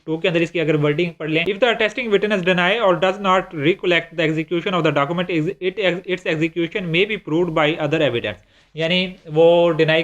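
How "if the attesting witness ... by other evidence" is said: slow, deliberate reading of the English statute; reading law text. Shown as a demonstration. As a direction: read each word out slowly like a clause. Reads statute text aloud. (धीमी आवाज़ में क़ानून की इबारत पढ़ना)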